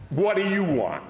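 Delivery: a lightly voiced Jack Benny deadpan; a mild Jack Benny impression, a touch high. Sleepy wife answers her husband in a light Jack Benny voice. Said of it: "who talked like Jack Benny".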